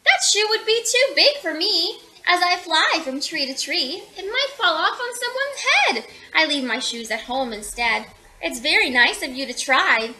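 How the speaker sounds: gently sung-up bird voice; lightly voiced bird. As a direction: lightly play a flighty bird. Mynah bird character answers.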